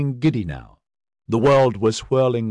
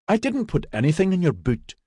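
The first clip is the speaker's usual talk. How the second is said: reasonable protest; 7 semitones higher than usual. A narrator's reading. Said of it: "protested in a reasonable voice".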